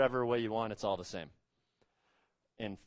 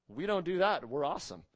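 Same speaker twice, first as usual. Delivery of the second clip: mock self-satisfied boast, pitched up; proud boasting; 5 semitones higher, 3 dB louder than usual. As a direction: imitate smug Pharisees congratulating themselves. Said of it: "they prided themselves on not murdering".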